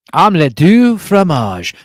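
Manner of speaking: slow, drawn-out mock French cartoon line; Dexter's Lab quote. Streamer quoting Dexter's Laboratory to chat, slow mock French. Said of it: "Dexter's Laboratory, of course".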